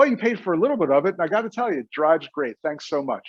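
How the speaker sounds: breezy, light, joking delivery with laughter. Demonstrating a doctor's answer to a patient's sarcastic question, laughing it off. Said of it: "asking the question kind of sarcastically".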